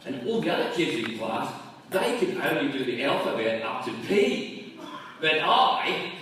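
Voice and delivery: put-on high, boastful little boy voice; proud kid. Young Stevie boasting to his dad, high kid voice. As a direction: crow like a proud schoolboy. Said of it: "He said".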